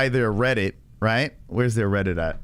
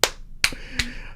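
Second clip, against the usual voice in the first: soft, high wheezing laugh; trailing breathless laughter; 10 semitones higher, 6 dB quieter than usual. Real, not acted. Reacting to the troll clip.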